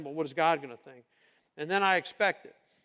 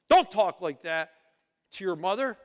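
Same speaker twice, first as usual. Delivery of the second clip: mock scolding; 5 dB louder than usual. Parent scolding a child who talks back.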